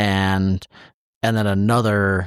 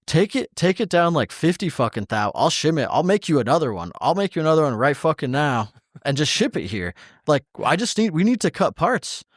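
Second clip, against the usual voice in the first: urgent retold rant, pitch jumping higher; frustrated outburst; 5 semitones higher than usual. Machinist retelling how they begged to just cut parts, frustrated. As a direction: insist on it, fed up and pushing.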